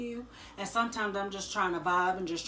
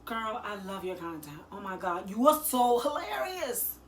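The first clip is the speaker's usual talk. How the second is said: fake friendly sales pitch; 3 dB louder than usual. Shown as a demonstration. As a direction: play a bubbly stranger pushing a side hustle. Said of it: "I would say".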